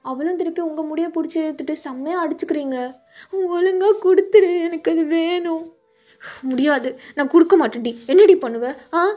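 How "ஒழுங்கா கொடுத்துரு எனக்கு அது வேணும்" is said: angry demand. Acted. Sisters fighting over a dress.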